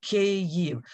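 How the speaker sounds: Kyiv said as KEE-yiv, two syllables. Shown as a demonstration. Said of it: "it is two syllables".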